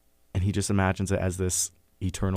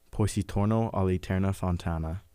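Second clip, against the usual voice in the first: reads the Dante line in an amateur Italian accent; a quick, unsure try at Italian vowels; self-mocking Italian accent. Shown as a demonstration. Reading Dante aloud to the book club in a self-mocking Italian accent. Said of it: "that was probably a terrible accent".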